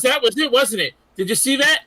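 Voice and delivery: a lightly voiced gloating fighter, slowing on the insult; imitating Kano. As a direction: ham up the smug bragging villain. Retelling Kano taunting the heroes.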